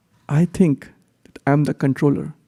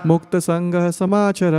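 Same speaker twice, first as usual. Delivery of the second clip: call and response; much faster than usual. Shown as a demonstration. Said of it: "please repeat after me".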